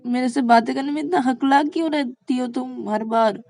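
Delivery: high, loud incredulous questioning; amused teasing. Acted. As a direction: tease the stammerer at full volume. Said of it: "Shreya जोर-जोर से हंसने लगती है".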